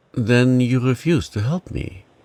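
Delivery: trembling, shaky, quavering voice. A young teacher, refused help by a schoolboys' father, asks in a trembling voice. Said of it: "said Esther in a trembling voice".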